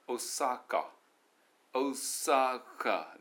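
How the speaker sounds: "大阪" stretched slowly into English beats; English syllables. Shown as a demonstration. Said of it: "それから大阪も".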